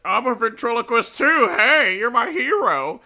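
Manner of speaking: high, loud starstruck fan voice; excited fan. Retold or imitated. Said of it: "He's like".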